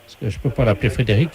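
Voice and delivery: ordinary talk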